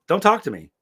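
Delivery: yelling at the cop to take the cuffs off; retold angry yelling. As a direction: fire it at him in outrage. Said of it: "I was, like, yelling at him".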